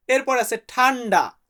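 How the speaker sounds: ordinary talk, nothing marked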